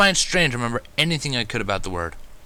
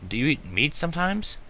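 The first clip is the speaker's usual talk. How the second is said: gentle question; 5 semitones higher than usual. Acted. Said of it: "I questioned gently".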